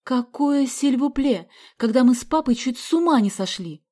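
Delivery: mother shouting at runaway daughter. Acted. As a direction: yell it, beside herself with worry. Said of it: "закричала мама".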